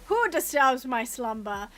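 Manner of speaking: slow booming cave guardian; Cave of Wonders voice. Retold or imitated. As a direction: intone it like a giant stone head. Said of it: "Giving Aladdin in the Cave of Wonders".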